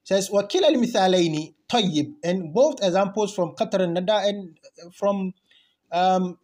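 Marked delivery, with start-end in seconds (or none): 0.3-2.1 rapid text reading. Shown as a demonstration.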